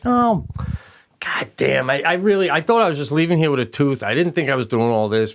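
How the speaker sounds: re-enacted frustrated protest. Patient protesting to his dentist, frustrated. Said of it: "I'm just, I'm frustrated".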